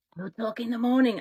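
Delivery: hushed, whispering voice. Reading a story aloud, a character warns the others: whispering. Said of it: "Adrian whispered".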